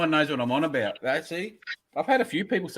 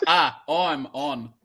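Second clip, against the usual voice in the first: drawn-out demonstration; much slower than usual. Shown as a demonstration. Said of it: "you gotta have a".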